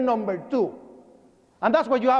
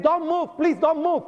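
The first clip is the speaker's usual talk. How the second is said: raised-pitch re-enacted pleading; urgent plea; 6 semitones higher than usual. Worker to the badly injured man, urgent retold plea.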